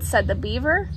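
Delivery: measured storybook narration; reading to children. A narrator's reading. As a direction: read it to little ones, pausing between phrases. Reads picture book aloud.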